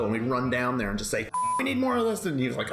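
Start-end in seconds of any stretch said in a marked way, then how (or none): 1.6-2.3 mock demanding. Barging in on the executive.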